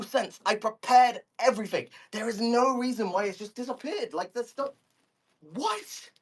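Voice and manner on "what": squeaky high what; high squeak. Real, not acted. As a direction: pitch shoots up in disbelief.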